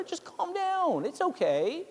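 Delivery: pat-on-the-head hush; a hint of condescending calm; mock soothing. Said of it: "when I say it to her".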